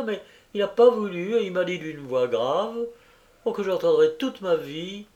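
a kindly landlady fussing with relief; fussy landlady. Acted. Landlady greeting Jacqueline home, gushing relief.

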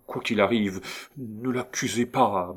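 frightened, halting appeal; stammered plea. A narrator's reading. Frightened patient protecting his wife from accusation, stammering. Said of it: "balbutia-t-il".

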